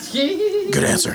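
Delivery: high, slow and drawn out. Pretend. Mock-approving taco host.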